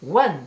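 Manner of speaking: "one" said the English way, like wan; "one" pronounced in English as a quick wink; English pronunciation. Shown as a demonstration. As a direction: give "one" a light English accent, not French "un". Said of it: "vous avez vu l'accent".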